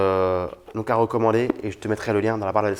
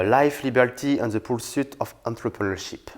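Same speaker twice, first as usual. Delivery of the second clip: French speaker's attempt at an American accent; lightly put-on American accent. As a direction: read the English title in a makeshift American accent. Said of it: "le bel accent, euh, américain juste pour vous".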